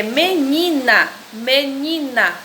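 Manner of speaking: "menina" said twice, the "ni" drawn out; stress on NI. Shown as a demonstration. Teacher asking pupils for the strong syllable, stress on "ni" in "menina". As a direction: lean slowly on "ni" in "menina". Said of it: "a sílaba mais forte".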